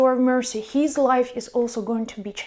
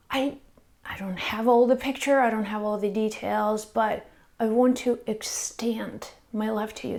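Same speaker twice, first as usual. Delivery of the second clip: soft whisper; 3 semitones lower, 5 dB quieter than usual. Retold or imitated. Tender words to a crying man.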